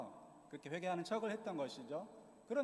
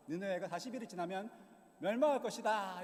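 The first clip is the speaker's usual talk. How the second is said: mildly raised prophetic call; perfunctory proclamation; 3 semitones higher, 4 dB louder than usual. Retold or imitated. Jonah calling out doom to Nineveh, perfunctory proclamation. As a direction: call out the warning, louder on the final words. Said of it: "대강 외치고 다녔어요".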